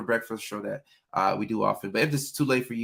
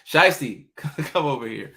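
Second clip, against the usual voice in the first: calling dog; 4 semitones higher, 4 dB louder, slower than usual. Real, not acted.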